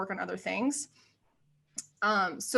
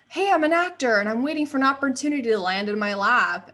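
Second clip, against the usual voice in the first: retold eager self-pitch, louder and quick; 3 semitones higher, 6 dB louder, faster than usual. Actor mimicking her old self waiting for auditions, eager pitch. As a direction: imitate a hopeful actor announcing yourself.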